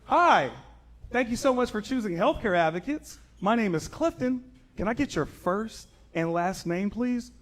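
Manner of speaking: high, chirpy phone rep greeting; customer service voice. Retold or imitated. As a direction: do the bright call-center script. Call center greeting acted.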